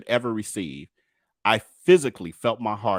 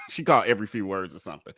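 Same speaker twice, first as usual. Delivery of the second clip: quick, amused re-say with a chuckle; laughing repeat; faster than usual. Real, not acted. Vlogger repeating the stenographer's gaps, laughing lightly. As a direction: toss it off again, laughing. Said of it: "repeats the line with a laugh".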